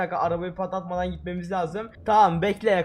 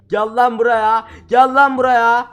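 building shout; 3 semitones higher, 7 dB louder, slower than usual. Real, not acted. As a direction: call him louder each time. Chasing, calling out louder. (giderek yükselen bağırış)

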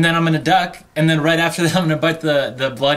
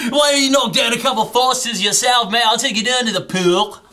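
put-on hammy Australian accent, pitched higher; fake Australian accent; 5 semitones higher than usual. Goading his annoyed friend, hammed-up Australian accent. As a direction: ham up the Aussie bloke. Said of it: "distinctly Australian accent".

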